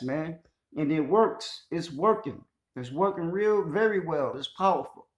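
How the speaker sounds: worked up, pitch lifted, emphatic; getting excited. Real, not acted. Speaker urging listeners to see the system at work, excited. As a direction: get carried away, punching key words loudly. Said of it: "I'm getting excited".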